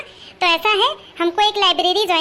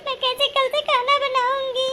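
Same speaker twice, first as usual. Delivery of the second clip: acted tearful wail; 5 semitones higher than usual. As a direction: cry out the worry, stretching खाना. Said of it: "अरे कहे रो तू". (रोते हुए पूछना, "खाना" खींचकर)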